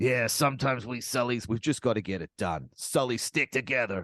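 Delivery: imitating an accent that slips between Brooklyn and Australian. Podcaster mimicking the film's voiceover, Brooklyn-to-Australian accent. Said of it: "his accent going from Brooklyn to Australian a lot".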